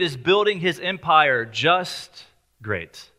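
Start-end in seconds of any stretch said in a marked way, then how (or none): 1.4-3.1 sarcastic. Retold or imitated. David's sarcastic inner voice.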